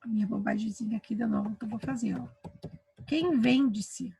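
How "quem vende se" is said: Quem vende-se drawn out slowly as a silly wrong question; awkward slow question. Shown as a demonstration. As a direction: stretch out Quem vende-se to show it sounds wrong. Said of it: "Ninguém fala assim".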